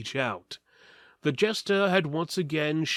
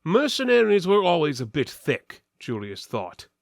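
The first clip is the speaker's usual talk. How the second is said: ordinary delivery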